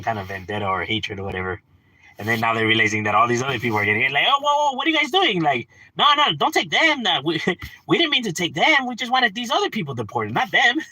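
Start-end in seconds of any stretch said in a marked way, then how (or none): 4.3-10.8 higher, pleading mock voice, lightly voiced; mock panicked voter. Voters realizing their own are deported, mock panic. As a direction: play the backpedaling voter, whining no no.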